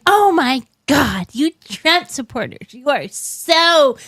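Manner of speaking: slow, drawn-out mock horror; mock screaming outrage. Woman in Walmart berating a Trump supporter, mock outrage. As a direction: imitate an outraged heckler without real volume. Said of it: "just started screaming at me".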